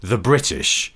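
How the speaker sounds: slow, deliberate mock menace; a touch of grand villainy; scooter rental villain. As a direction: declare it slowly, like a pantomime villain. Acting villainous scooter rental king.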